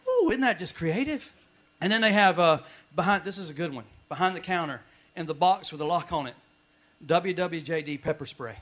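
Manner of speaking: sarcastic aside. Acted. Pastor mocking Christian bookstores to the congregation, dry sarcasm. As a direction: tease the church merchandise. Sarcastic comic bit, softer.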